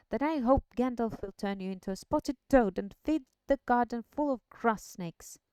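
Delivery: hushed threat turning loud; stern Frodo. Acted. Frodo warning Sam.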